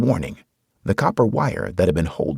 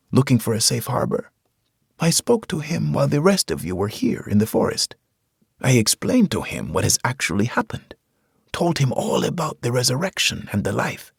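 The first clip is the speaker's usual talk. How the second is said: put-on gentle preacher, higher, with a Hispanic accent; 9 semitones higher than usual. A narrator's reading. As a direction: soothe the soldier, Hispanic accent. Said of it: "He had a Hispanic accent".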